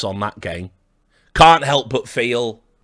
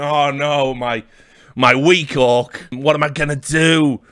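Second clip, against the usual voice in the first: mock gamer lament; 4 semitones higher than usual. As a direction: moan it like a sulky player.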